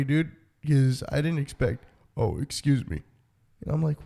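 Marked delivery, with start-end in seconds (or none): 2.2-3.0 low, casual kid impression; deep-voiced kid. Imitating the son who startled his dad, low and casual. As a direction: lightly imitate a boy's dropped voice, pitched down. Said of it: "What happened to your fucking voice?".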